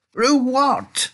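high, loud, baffled question; startled high-pitched holler; alarmed shout. A narrator's reading. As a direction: yell back in bewilderment. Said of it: "shouted Grandpa Joe".

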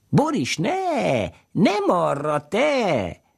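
put-on very high, slow child's call to the cow. A narrator's reading. Little girl calling the cow Boris away, high cries.

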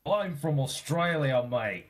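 badly faked Australian accent; joking, stereotyped Aussie accent; hammed-up Australian accent. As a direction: overdo the Australian vowels. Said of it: "No, that's all wrong".

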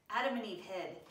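put-on storybook read-aloud to kids; story narration. A narrator's reading. Pastor reading a Bible story to Sunday school kids, gently. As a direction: tell it gently, like reading to children.

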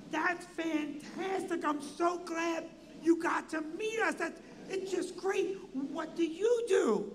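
high, very slow, stretched-out enthusiasm; Dick Smothers. Retold or imitated. Entertainer thanks a backstage visitor, in a weird slow gush. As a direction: gush oddly, drawing every word out high. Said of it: "how the Smothers Brothers are talking".

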